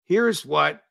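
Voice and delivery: half laughing, barely holding it in; struggling to keep a straight face; suppressing a laugh. Real, not acted. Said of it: "I can't say this with a straight face".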